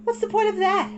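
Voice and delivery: put-on high, loud, fed-up child; an impatient big sister; exasperated girl. A narrator's reading. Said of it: "Satsuki was getting exasperated".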